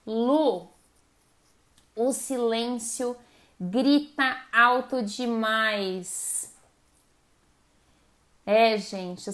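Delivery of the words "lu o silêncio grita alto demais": slow quoted line. Retold or imitated. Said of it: "ouvi um negócio maravilhoso na terapia".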